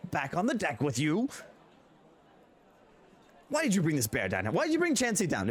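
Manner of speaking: high, chiding call; scolding halfling. Acted. Halfling scolding the bear Chansey, high and chiding.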